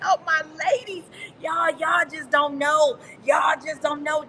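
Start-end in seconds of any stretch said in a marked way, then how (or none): 1.4-4.2 overjoyed exclaim. Real, not acted. Overwhelmed with excitement.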